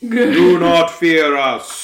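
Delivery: slow, grand royal decree. Acted. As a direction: declare it like an imperious princess. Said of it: "it is the royal voice".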